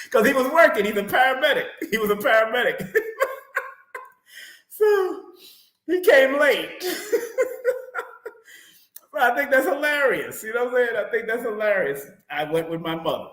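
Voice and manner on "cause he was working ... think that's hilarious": high, giggly retelling; laughing. Real, not acted. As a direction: still cracking up while explaining. Keeps laughing about father's lateness.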